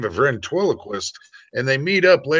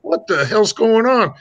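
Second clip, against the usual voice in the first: high startled outburst; sudden disbelief, pitched up; shocked rancher; 6 semitones higher than usual. Retold or imitated. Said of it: "And the rancher's like".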